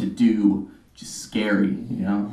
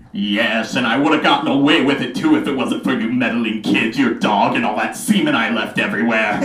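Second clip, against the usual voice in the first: cartoon villain confession; fast villain rant; Scooby-Doo villain; 2 semitones lower, faster than usual. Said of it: "my impression of the worst Scooby-Doo villain".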